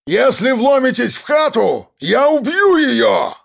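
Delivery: high, slow menacing yell; threatening shout. A narrator's reading. Gunman threatening the police from the window. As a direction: scream the threat from behind the hostage. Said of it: "прокричал Жорич".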